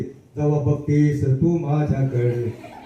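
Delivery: slow, lovestruck inner voice with a laugh; drawn out like a shy teenage crush, laughing; slow smitten murmur; slow dreamy thought. Retold or imitated. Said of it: "ते मनातच म्हणतंय".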